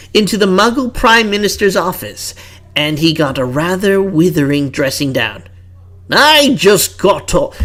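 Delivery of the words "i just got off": put-on British accent. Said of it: "how many British accents am I gonna do".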